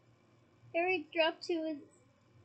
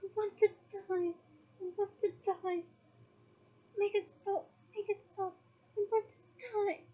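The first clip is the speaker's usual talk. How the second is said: higher, crying anguish; anguished crying plea, pitched higher; 4 semitones higher than usual. Acted. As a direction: wail out the wish to die, near tears. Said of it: "began to scream in more anguish than ever".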